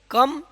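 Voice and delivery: a clean "कम", closing on the m; silent B in कम. Shown as a demonstration. Teacher answering his own question, "कम" with silent b. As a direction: say "कम" without any b at the end. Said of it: "इसको क्या पढ़ेंगे".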